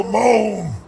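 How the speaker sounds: drawn-out demonstrated moan; demo moan. Shown as a demonstration. Coach shows crowd how to moan, drawn-out demo moan. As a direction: let the moan stretch out.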